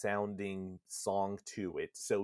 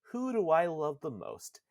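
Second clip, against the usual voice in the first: higher-pitched, lightly voiced girl; Yona; 6 semitones higher than usual. Daughter asking her last question in Nier's mind, higher-pitched. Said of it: "where she asks".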